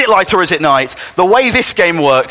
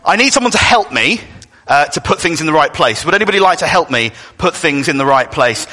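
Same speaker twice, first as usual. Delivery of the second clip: ordinary delivery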